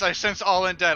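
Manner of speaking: mock announcement. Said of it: "I constantly said divine sense".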